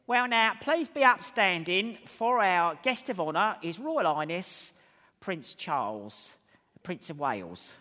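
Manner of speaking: loud, high, posh-English mayoress announcing royalty; mayoress's grand accent. Retold or imitated. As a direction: imitate the mayoress in her grand English accent, drawing out Prince Charles. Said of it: "she said in a wonderful accent".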